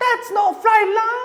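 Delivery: put-on Chinese accent. Imitating a man who critiques people's Asian cooking, stereotypical Chinese accent. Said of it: "The Chinese kind of accent".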